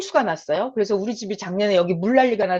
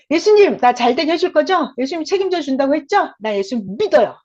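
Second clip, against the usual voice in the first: raised, louder eager plea to Jesus; trusting loud prayer; 3 semitones higher, 5 dB louder than usual. Shown as a demonstration. Preacher demonstrating a prayer of trust, raised eager voice. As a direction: declare your trust out loud. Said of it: "이렇게 말을 해버리는 거예요".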